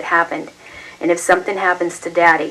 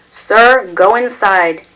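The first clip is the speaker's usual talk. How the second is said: loud police order; 3 semitones higher, 6 dB louder, much slower than usual. A narrator's reading. White cop ordering neighbor inside, sharp raised command. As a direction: send him inside, sharply.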